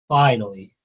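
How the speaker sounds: "finally," stressed, falling at the end; emphatic repeat. Real, not acted. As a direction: lean hard into "finally,". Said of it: "and I mean".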